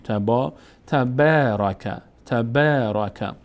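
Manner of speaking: تبارک read slowly with the long a held; slow teacher reading of تبارک; slow recitation. Shown as a demonstration. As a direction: repeat تبارک slowly for the class.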